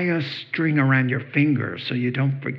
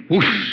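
whoosh sound; 4 dB louder than usual. Retold or imitated. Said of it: "whenever we would say".

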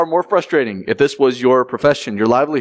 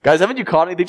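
same doubtful call, a bit fuller; expecting no answer; 4 semitones higher, much faster than usual. Shown as a demonstration. Preacher repeating the stranger's question, doubtful. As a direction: ask again, certain they caught nothing. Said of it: "tone of expectancy of a negative answer".

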